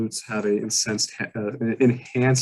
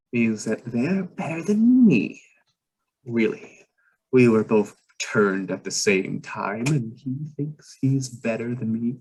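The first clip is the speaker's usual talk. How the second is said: jealous muttering vampire; 2 semitones higher than usual. Acted. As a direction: grumble it like a slighted rival.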